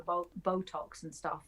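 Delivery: put-on northern accent. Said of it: "why did I say that in a northern accent".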